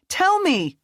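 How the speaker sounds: very high, loud shout; furious yell. Acted. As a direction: shout it as the blade strikes. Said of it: "she shouted".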